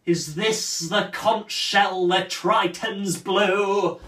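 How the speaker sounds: slow, poetic wonder; lyric. Acted. Cyrano mocks the nose, slow and lyrical. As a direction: savour it like a poem.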